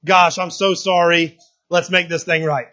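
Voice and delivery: slow, syrupy mock apology; hammed-up tender husband apologising; mock apologetic husband. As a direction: lay the sorry on thick, slowly. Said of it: "Do you think I'm going".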